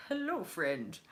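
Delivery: mock-sincere declaration of feelings; imitating George. Reader voicing George confessing to Ellie, lightly hammed-up. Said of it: "George seems to be like".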